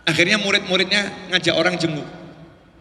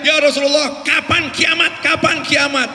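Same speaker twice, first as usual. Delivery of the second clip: imitated villager's shouting; 6 semitones higher than usual. Villager asks the Prophet about Judgement Day, imitated shouting. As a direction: holler the question urgently from afar. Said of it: "Dia teriak-teriak".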